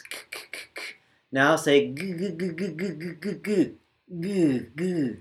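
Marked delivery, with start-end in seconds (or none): 2.1-5.2 g said with voice buzzing, soft and higher; a gentle voiced g, again and again. Shown as a demonstration. Teacher contrasting voiced g with k, soft voiced. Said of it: "The G uses your vocal cords".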